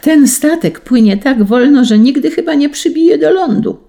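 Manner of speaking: high, loud impatient yell; shouting again. A narrator's reading. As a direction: Gotrel shouting on deck, impatient to reach land. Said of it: "wołał znów, śmiejąc się ciągle".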